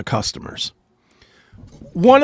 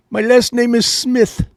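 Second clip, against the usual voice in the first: mock Indian accent; 5 semitones higher than usual. Mocking agent's fake name.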